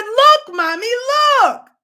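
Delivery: put-on high, loud child's call; eager small boy showing his find; excited little boy. Boy shows mother his find, high child voice. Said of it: "He said".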